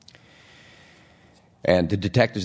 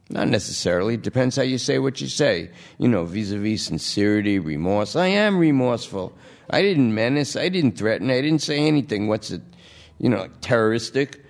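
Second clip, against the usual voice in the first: junkie voice; 4 semitones higher than usual. Acted. Lester pleads his case.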